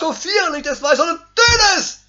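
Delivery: high, loud commanding call. Acted. Preacher proclaims the Bible's command to kill the flesh, loud and high. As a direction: thunder the command. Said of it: "was sagt die Bibel".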